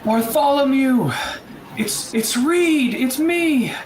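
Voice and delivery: high-pitched frantic plea, each phrase falling away at the end; desperate calling out. Acted. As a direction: call to someone lost, begging them to come. Reed calls out to lost Bartholomew.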